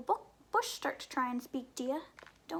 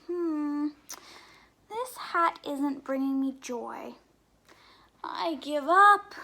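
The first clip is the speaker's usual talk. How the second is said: sheep's voice; 9 dB louder, slower than usual. Acted. Sheep looks in mirror, gives up.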